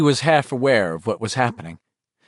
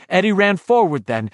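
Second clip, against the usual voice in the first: ordinary delivery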